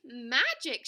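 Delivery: loud delighted exclamation; shouting. A narrator's reading. Pecan echoing the other squirrel's wonder, shouting. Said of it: "shouted Pecan".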